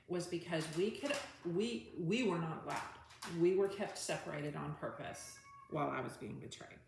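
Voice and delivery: emphatic, hurt anger; real anger. Real, not acted. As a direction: let some real anger into the voice. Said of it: "You could hear my voice change".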